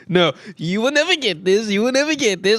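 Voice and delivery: playful gloating; sing-song tease with NEVER lifted; taunting. Real, not acted. Teasing a loser.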